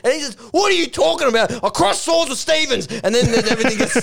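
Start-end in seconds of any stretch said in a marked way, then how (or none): 0.5-2.9 higher-pitched mock indignation; indignant retort. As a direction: fire back in a raised, offended pitch. Acted quarrel, indignant retort.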